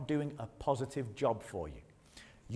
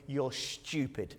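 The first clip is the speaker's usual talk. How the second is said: laughing; 5 semitones lower, 7 dB quieter, slower than usual. Real, not acted. Punchline about facing the giant.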